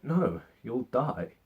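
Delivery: a touch of grief. Retold or imitated. Luke refusing to unmask his dying father, quiet and slow. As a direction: hold it back, quiet and slow. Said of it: "Luke's just all like".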